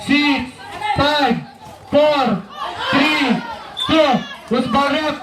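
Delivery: brisk courtside game call; live play-by-play. Acted. Announcer calling the game to the Wildcat crowd, live play-by-play. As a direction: call the plays as they happen.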